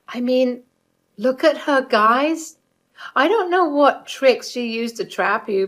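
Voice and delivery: mother-in-law mocking her son's wife to party guests; voiced mother-in-law. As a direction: play the scornful mother-in-law showing off.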